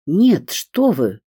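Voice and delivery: a touch of alarm, pushing back; frightened. A narrator's reading. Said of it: "испугалась я". (испуганно, но сдержанно)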